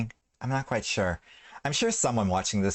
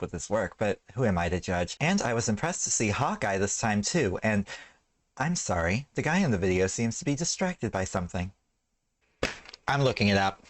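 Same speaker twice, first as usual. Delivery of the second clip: therapeutic voiceover voice. Real, not acted. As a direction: narrate gently like a therapist. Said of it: "my therapeutic voiceover voice".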